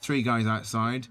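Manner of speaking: a hint of a Somerset accent, retelling a copper; light Somerset accent. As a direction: slip into a mild Somerset burr for the officer. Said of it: "I'm doing a Somerset accent".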